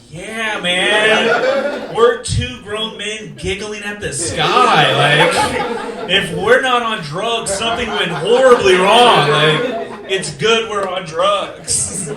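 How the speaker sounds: giggling. Retold or imitated. Two men giggling at the sky.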